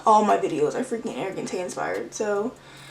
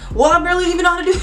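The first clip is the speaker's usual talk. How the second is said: breaking into laughter mid-line; laughing at herself; 8 semitones higher, 6 dB louder, much faster than usual. Real, not acted. Laughing at own admission.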